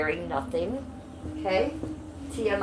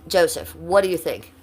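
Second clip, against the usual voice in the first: louder, pointed question; calling out; 6 dB louder than usual. Real, not acted. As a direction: call him out by name. Calling out a commenter.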